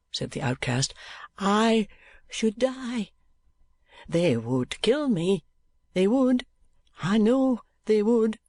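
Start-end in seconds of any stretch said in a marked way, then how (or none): 1.4-8.4 put-on frightened pleading boy. A narrator's reading. Smike pleading in terror.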